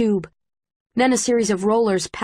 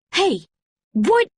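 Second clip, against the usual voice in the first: high startled yell; guard startled by runners; surprised shout; 9 semitones higher, 4 dB louder than usual. A narrator's reading. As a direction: call out in alarm.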